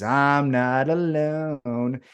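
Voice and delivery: very slow, put-on ominous voice; a mock-dramatic warning, slowed right down; ominous line. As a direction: drag it out like a spooky threat. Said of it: "And then Darby says".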